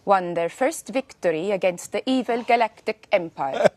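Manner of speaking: lightly voiced Norwegian accent. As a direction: read it with a Norwegian lilt.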